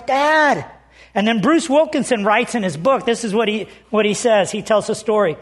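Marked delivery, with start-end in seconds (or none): 0.0-0.7 higher-pitched mild mock yell; retold yell. Frightened boy calling to his father from the ladder, retold yell. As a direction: call out like a boy wanting his dad. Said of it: "and he yells".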